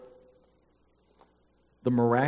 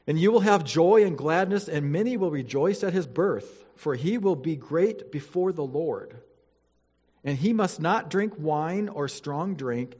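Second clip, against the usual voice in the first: scripture reading; 2 semitones higher than usual. Acted. Pastor reading Luke to the church, formal and solemn. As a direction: read it out to the congregation with weight.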